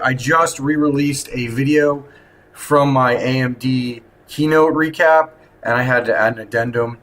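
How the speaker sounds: echoey hotel room sound; talking in a reverberant hotel room. Real, not acted. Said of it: "if I sound a little bit, um, echoey, it's 'cause I'm in my hotel room".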